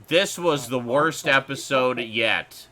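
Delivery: slow, heavy mock troll verdict; slow booming troll voice. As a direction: drag it out like a grumbling troll. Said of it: "do the whole video in your troll voice".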